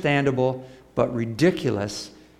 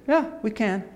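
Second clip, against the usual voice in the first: eager disciples; 9 semitones higher than usual. Retold or imitated.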